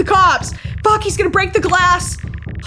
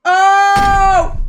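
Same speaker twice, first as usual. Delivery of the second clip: startled cry; 3 semitones higher, 5 dB louder than usual. Real, not acted. Sudden scare in game.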